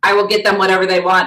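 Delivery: loud, fast, gushing promise; excited aunt quote. Retold or imitated. Mom quoting the aunt's text, loud and gushing. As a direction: gush it out like the fun aunt. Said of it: "And you said".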